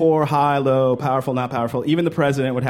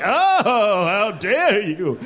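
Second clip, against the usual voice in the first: mock offended; 5 semitones higher, much slower than usual. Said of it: "You're like".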